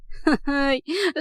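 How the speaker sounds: short laugh rising at the end; sarcastic laugh. A narrator's reading. Rahaf laughs at Murad's excuse, sarcastic. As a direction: scoff with a laugh.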